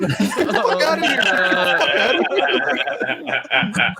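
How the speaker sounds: very high, laughing protest; laughing mock outrage. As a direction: squeal it through laughter, drawing out the end. Acted outrage at aunt, laughing.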